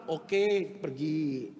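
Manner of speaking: lightly voiced placid agreement; compliant phlegmatic man. Phlegmatic Abraham obeys his wife, mildly placid. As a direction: give in easily, dropping away at the end. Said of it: "Orang flekmatik dengar, iya".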